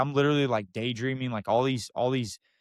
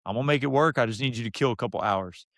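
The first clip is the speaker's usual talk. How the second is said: Coach Vincent; 2 semitones higher than usual. Retold or imitated. Coach reassures the waiting job seeker, lightly imitated. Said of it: "good old country boy from Vernon".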